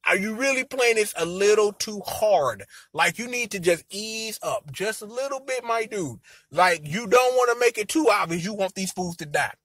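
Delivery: soft, confidential coaching; hushed advice. Acted. Viewer telling the schemer to ease up, hushed advice. Discreetly advising a character to ease up.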